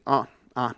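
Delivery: "ah" as a wide open singer's A; broad, open "ah". Shown as a demonstration. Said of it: "más abierta".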